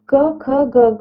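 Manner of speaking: "क, ख, ग" said one by one, each letter clearly separated; reciting consonants. Shown as a demonstration. Teacher to students, sounding out "क, ख, ग" one at a time. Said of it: "जैसे स्पर्श यहाँ पर आप देखिए".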